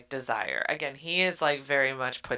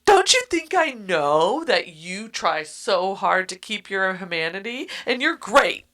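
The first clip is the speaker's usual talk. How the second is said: high, loud, squealing rant of protest; hammed-up indignant yelling back at him; mock exasperated shout; 8 semitones higher, 9 dB louder than usual. Heroine's exasperated retort voiced.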